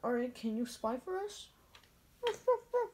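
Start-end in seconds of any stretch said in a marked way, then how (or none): 2.2-2.9 high little ruff ruff; the dog answering, barking high. Acted. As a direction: yap like an eager puppy.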